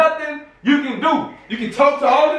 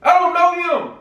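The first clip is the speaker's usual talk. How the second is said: defensive protest; 5 semitones higher, slower than usual. Real, not acted. Denying blame in the quarrel.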